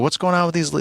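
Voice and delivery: mock demand for an explanation; confrontational.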